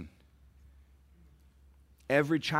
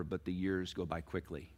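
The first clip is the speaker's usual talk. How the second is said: softer, lower; soft plain statement; 4 semitones lower, 8 dB quieter than usual. Shown as a demonstration. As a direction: say it quietly. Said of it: "parents, please listen".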